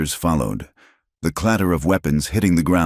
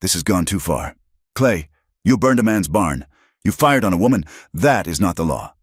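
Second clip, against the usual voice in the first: gaining strength; 2 semitones higher than usual. Acted. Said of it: "his voice gaining strength".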